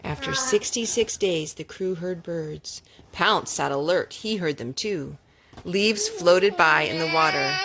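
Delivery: gentle read-aloud storytelling voice; story narration. Acted. Mother reading a picture book to her children, gently.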